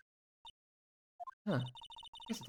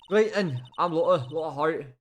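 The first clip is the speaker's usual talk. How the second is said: loud, brash Southern woman; country woman; 4 dB louder than usual. Acted. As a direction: talk big like a feisty country gal. Voicing Lotta introducing herself.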